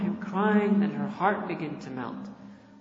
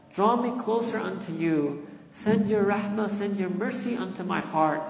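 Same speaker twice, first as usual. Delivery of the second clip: a lightly raised, begging plea to the Lord; earnest pleading prayer. Acted. Believer begging his Lord for forgiveness, earnest pleading prayer.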